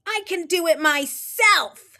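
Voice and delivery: high, loud protest; shouted. Acted. Froggy refuses Froglina's help, loud and high. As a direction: insist on it. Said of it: "shouted Froggy".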